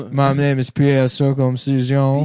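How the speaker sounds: lightly voiced Cajun man; Louisiana accent. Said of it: "a Louisiana man".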